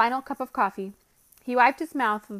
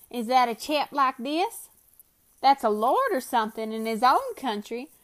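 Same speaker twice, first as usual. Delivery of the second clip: Bill's voice; 3 semitones higher, 3 dB louder than usual. Acted. Bill puzzles over the lord.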